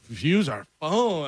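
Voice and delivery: slow, drawn-out baffled question; confused older ladies. Retold or imitated. Older ladies told to pay by phone, acted bewilderment. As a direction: imitate bewilderment, stretching each word. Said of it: "So confused".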